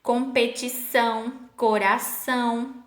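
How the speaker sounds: measured "Competição, coração" with Ç as S; teacher carefully giving "Competição, coração"; cedilla examples. Shown as a demonstration. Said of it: "vai ter o som de S".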